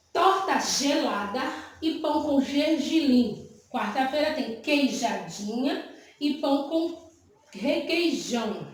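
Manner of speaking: slow, drawn-out "gelada", "gergelim", "queijadinha", "requeijão"; teacher slowly sounding out "gergelim" and "queijadinha" with a clear zh; sounded-out J sound. Shown as a demonstration. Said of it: "Vocês percebem que tem o mesmo som".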